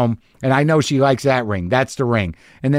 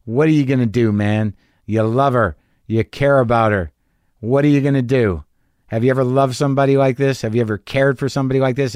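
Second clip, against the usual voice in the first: lower, earnest talking-to; self pep talk; 3 semitones lower than usual. Retold or imitated. Talking himself down before proposing, low and earnest. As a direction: talk yourself down, gently firm. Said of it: "I speak to myself in this tone".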